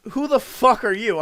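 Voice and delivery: loud, high furious demand; retold caller yelling who the fuck are you; furious mother. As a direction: bark it at him like an outraged mother. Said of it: "And she goes".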